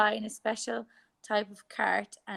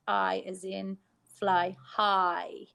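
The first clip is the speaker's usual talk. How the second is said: slow phonics demo; much slower than usual. Shown as a demonstration. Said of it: "I sound".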